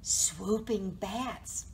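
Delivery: drawn-out storybook reveal; reassuring picture-book reading; story narration. A narrator's reading. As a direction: reveal it slowly to young listeners.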